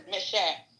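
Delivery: lightly imitated Louisiana accent; a touch of old-time Louisiana speech. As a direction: quote grandfather with a hint of Louisiana. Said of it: "I have to say it in his Louisiana accent".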